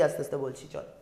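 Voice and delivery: teacher obliging a student, saying it very softly. Shown as a demonstration. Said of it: "sir, একটু আস্তে বলুন".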